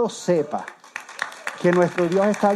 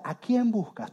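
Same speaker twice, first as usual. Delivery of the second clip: "quién" pitched up, then falling; stress on quién; 4 semitones higher, 4 dB quieter, slower than usual. Shown as a demonstration. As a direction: lift the word "quién" to set it against "qué". Contrasts who with what.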